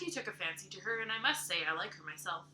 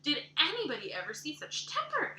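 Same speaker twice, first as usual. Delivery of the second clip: higher, louder, shocked; horrified exclamation; 6 semitones higher, 4 dB louder than usual. Acted. Missus Rachel shocked by Anne's tantrum, horrified. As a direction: gasp it out in disbelief. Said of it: "exclaimed the horrified Missus Rachel".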